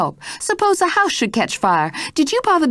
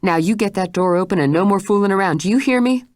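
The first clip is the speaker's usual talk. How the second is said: higher, faster insistent voice; pressing demand; 4 semitones higher, faster than usual. Acted. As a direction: press her hard. Mrs Stitt presses Jane.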